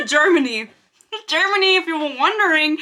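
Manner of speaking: high, amused voice breaking into laughs; laughing answer. Real, not acted. Laughs answering where she is from.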